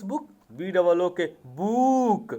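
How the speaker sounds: "book" with a long drawn-out oo; wrong long vowel. Shown as a demonstration. Teacher showing pupils a mispronunciation, long drawn-out "book". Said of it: "you have not to pronounce it like this".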